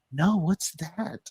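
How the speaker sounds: high, slow, playing dumb; mock innocent girl. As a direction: feign naive curiosity, slowly. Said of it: "And she's like".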